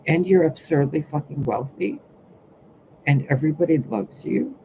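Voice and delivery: mock disbelief, listing with rising tunes; imitated overwhelmed disbelief. Speaker mimics people terrified by her, mock overwhelmed disbelief. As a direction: pile up each item like an overwhelmed doubter. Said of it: "people are terrified by that".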